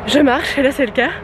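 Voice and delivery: breathless, panting between words; out of breath. Real, not acted. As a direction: talk while catching your breath. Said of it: "je suis à bout de souffle".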